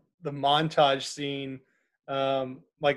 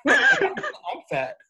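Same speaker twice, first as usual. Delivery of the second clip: put-on high, laughing squeak of a boy; high squeaky kid voice. Mimicking the fat camp kid in a squeaky boy's voice.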